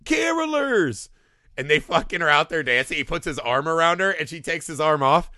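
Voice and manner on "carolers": high, drawn-out exclamation; Phil Hartman. Retold or imitated. Fan imitating the actor's line, high and drawn out. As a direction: stretch the word out high, mock delighted. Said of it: "when he, he's like".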